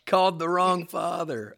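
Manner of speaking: loud, high, slow repeat of the punchline; delighted echo. Real, not acted. Podcast host echoing the guest's punchline, excited. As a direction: savour the line with real glee.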